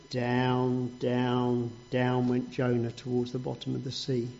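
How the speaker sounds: narrating Jonah sinking, hushed. A narrator's reading. Jonah sinking to the sea bed.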